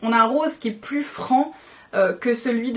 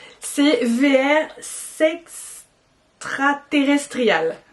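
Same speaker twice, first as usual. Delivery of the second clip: very slow, each part drawn out, slow-motion; 3 semitones higher than usual. A speaker struggles to pronounce a product name, saying it very slowly. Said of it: "je le fais au ralenti".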